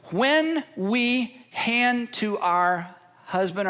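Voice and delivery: slow breathy whisper to the congregation. Real, not acted. Preacher to congregation, a slow whisper. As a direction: hush it right down, slowly.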